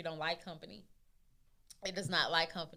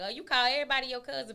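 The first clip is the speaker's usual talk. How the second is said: higher, louder, fast mock-judgy; mocking critics; 7 semitones higher, 6 dB louder, faster than usual. Mocking people who judge her cousins, mock judgy. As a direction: sneer like a nosy critic. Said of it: "Everybody be like".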